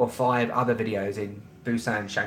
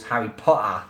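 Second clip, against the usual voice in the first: London accent; 3 semitones lower than usual. Shown as a demonstration. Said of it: "There's my London accent".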